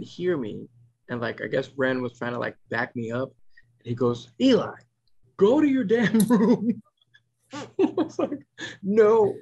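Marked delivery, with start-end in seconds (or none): 4.4-6.8 high, loud child playing the parent; drawn-out, hammed-up yell at a sibling; imitated scolding yell. Child backing parent up, yelling. 8.8-9.3 alarmed correction. Retold or imitated. Parent stopping the swearing child.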